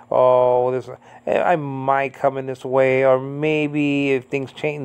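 slow, drawn-out hemming and hawing; mock wishy-washy. Mocking vague prophecy full of subjunctives, slow and wavering. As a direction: waver through it, stretching the maybes. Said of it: "he uses subjunctives".

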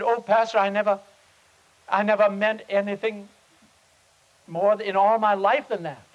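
high, loud, fervent vow; sick man vowing to his pastor, loud and high; earnest insistence. Retold or imitated. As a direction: swear it with everything you have. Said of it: "you speak as though you really mean it".

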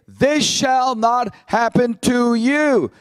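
slow, weighted repeat of the protest; emphatic. Retold or imitated. Preacher repeating Peter's protest, slow and emphatic. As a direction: lean on every word slowly. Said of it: "pretty emphatic, isn't he?".

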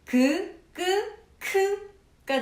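그, 끄, 크 said as plain, tense and aspirated k sounds; clear velar sounds. Shown as a demonstration. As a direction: sound out 그 끄 크 one by one. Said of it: "닿았다가 떨어지면서 나는 소리".

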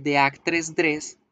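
the actress dress with actress as one syllable and no possessive -es; wrong, no possessive. Shown as a demonstration. Teacher showing the version that loses the possession. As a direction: run actress straight into dress with no extra syllable. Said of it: "no estoy pronunciando la posesión".

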